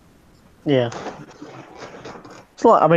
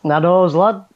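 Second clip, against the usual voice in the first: put-on Yorkshire accent. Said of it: "I can speak like you".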